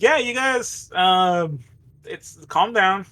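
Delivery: a hint of an awkward calming medic; placating medic. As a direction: soothe the patients haltingly in a slightly lifted voice. Mike calms the patients.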